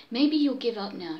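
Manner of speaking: suggesting. Acted. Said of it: "she suggested".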